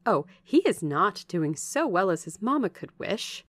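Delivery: lively, emphatic servant's chatter; gossipy Bessie, confiding. Acted. Bessie telling Jane how John Reed is doing, confiding gossip. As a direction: pass on the family news with swooping pitch.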